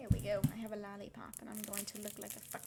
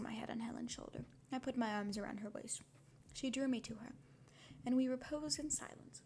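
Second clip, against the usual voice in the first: story reading; 2 semitones higher than usual. Acted. Reading novel aloud on stream.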